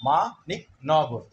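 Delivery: মা নিক ন গর with quick, distinct beats; syllable by syllable. Shown as a demonstration. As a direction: tap out the four beats of মানিকনগর. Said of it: "ধ্বনি আয়াস চারবার নিয়ে নিচ্ছে". (মা নিক ন গর, চার ঝোঁকে)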